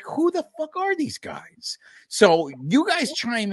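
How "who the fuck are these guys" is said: frustrated fan. Retold or imitated. Voicing frustrated fans in playoffs.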